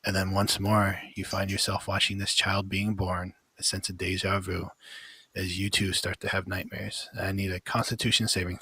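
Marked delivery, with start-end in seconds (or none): 0.1-7.1 story narration. A narrator's reading. Game master describing the vision to the players, steady narration. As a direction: paint the horror evenly for the players.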